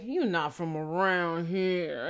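slow movie tough-guy imitation; mock menacing big man from a film; intimidating big guy. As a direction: size up the stranger, drawn out. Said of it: "there's some big guy and he's like".

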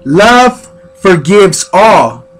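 measured, earnest recital of affirmations over music. Acted. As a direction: lay each line down like a gentle sermon.

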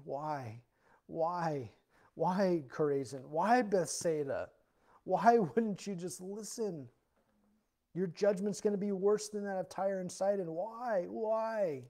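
grieving, pleading why; heartbroken why. Acted. Jesus grieving over the towns that rejected him. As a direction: ask why with a breaking heart. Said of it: "a heartbroken why".

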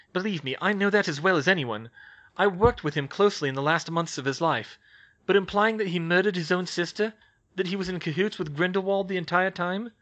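put-on crisp voice of a young witch, wary; young witch, brisk. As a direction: Hermione taking charge of a tense meeting. Hermione arguing.

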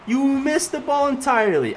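loud, high, drawn-out yelling at a teammate; exasperated rant at the AI teammate; frustrated yell. Real, not acted. Gamer yelling at teammate who missed an open goal, exasperated.

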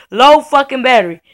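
loud exasperated repeat; loud, fed up with the laptop; annoyed outburst. Real, not acted. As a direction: spit the words back in disgust. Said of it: "talking about some low battery".

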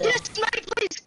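high, loud cheer; excited shout. Real, not acted. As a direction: yell it out in delight. Excited callout after a kill.

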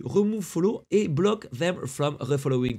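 reads the button in a hammed-up English accent, a bit slow; show-off English accent on the button label; mock English accent. Streamer reads a Twitch button in mock English accent. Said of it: "T'as vu cet accent anglais magnifique?".

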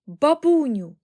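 high, loud joyful call; boy's thrilled shout; excited exclamation. A narrator's reading. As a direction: call out to granny with delight. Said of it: "вигукнув Чарлі".

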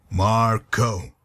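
"Marco" said in two deliberate syllables; patient correction. Acted. Correcting a dim listener on Marco, deliberate. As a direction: spell out "Marco" for a slow listener. Correcting the misheard name Mario.

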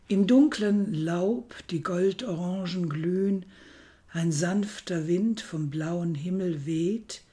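measured Goethe recital, lifting on each refrain; poem recitation. Acted. Presenter reads Goethe's original for comparison, measured poem recital. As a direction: read classical verse with deliberate pauses between phrases.

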